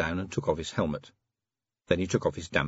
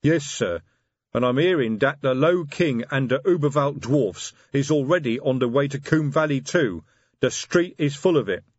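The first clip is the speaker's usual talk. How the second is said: lightly voiced troll sergeant; a hint of a big troll; 5 semitones higher, 4 dB louder than usual. Detritus voiced in story.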